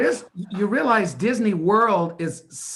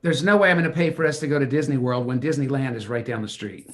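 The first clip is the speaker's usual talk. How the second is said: yelling; 5 semitones lower, faster than usual. Acted. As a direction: bark it with a laugh breaking through. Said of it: "Stop yelling at me!".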